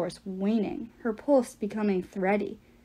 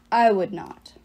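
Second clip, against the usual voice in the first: reverberating voice; 2 semitones lower, 4 dB louder than usual. Acted. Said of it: "Claudius's voice reverberated from Leo's mouth".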